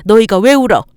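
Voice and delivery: put-on loud, fierce mother's promise to her kids; a grieving mother swearing she'll raise them proudly; defiant loud pledge through tears; tearful vow. Widowed mother vows to children.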